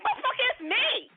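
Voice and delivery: high, loud squawk of disbelief; exasperated yell. Retold or imitated. Wife calling husband, high mock exasperated yell. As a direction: yell down the phone in mock outrage. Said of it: "I'm on the other end like".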